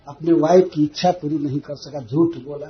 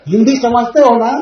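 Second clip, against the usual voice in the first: mocking question with a laugh; laughing tease; 4 semitones higher, 6 dB louder than usual. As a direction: rub it in playfully. Teasing quote, laughing. (हँसते हुए ताना)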